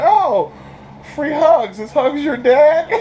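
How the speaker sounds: high, loud goofy dude voice; a cheerful stranger yelling a bad pun, high and loud; mock white dude. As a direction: pitch it up and shout it like a clueless guy. Voicing random white dude.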